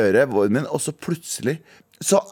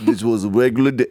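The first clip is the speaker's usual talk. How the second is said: film voiceover; 5 semitones lower than usual. Retold or imitated. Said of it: "en sånn stemme som går i bakgrunnen".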